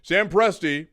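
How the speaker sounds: grand, measured oration with long pauses; mock presidential speech. Co-host delivering his winner pick as a mock speech. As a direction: deliver it like a solemn address to the nation. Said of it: "How long is this speech gonna be?".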